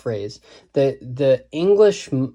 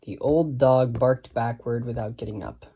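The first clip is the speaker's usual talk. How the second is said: softer, deliberate recitation; measured verse line; 3 semitones lower, 5 dB quieter than usual. Shown as a demonstration. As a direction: weigh each stress in "old dog barked backward". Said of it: "the first line is difficult to say fast".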